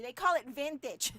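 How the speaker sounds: amused laughing aside. Real, not acted. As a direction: laugh as you say it. Laughing at the label.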